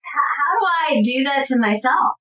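a real, pained half-shout of disbelief; choked outburst. Real, not acted. Woman retelling police abuse, crying out in disbelief. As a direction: voice cracking into a tearful cry. Outraged at police blaming her.

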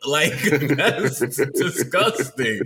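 slow, drawn-out disgusted laugh. Real, not acted. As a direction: stretch it out, grossed out but amused. Reacting to LeBron Kings idea.

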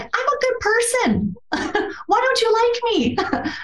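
high, small wounded plea; hurt plea. Retold or imitated. Pleading to coworkers who disliked her, high wounded voice.

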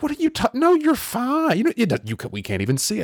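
mock friends doubting the injury; friends brushing it off. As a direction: wave it off in a high voice. Friends voiced dismissing him.

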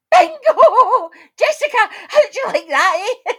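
high, loud, laughing gloat; a winner gloating at Jessica, laughing and loud; laughing triumph. Acted. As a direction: crow with delight at a rival.

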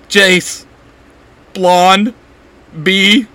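breaking up with laughter, loud and high; stammering through laughter. A narrator's reading. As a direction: gasp out the words while laughing. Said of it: "She stammers out, laughing so hard".

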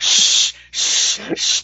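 hushed shh; shushing. Real, not acted. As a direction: hush them quickly. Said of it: "Don't spoil the dildos".

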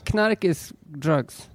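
Knark said slowly, with the K sounded; Swedish word Knark. Shown as a demonstration. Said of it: "How do you say it?".

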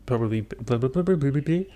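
tongue-tied babble rising in pitch; playful babble. Real, not acted. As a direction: babble nonsense syllables after stumbling. Garbles word, babbles in play.

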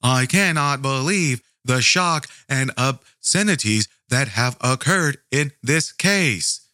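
slow, hammed-up gasp of outrage; mock a theatrical podcaster, drawn out and slow; slow mock-shocked performer voice; fake dramatic shock. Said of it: "I'm not an improv actor".

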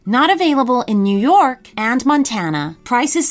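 upbeat sponsor read. Acted. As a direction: sell it like a radio ad. Podcast promo and sponsor ad.

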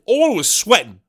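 high, loud, silly put-on voice on all; jokey goofy voice repeating it; mock dumb voice. Comedian repeating the line in a goofy voice.

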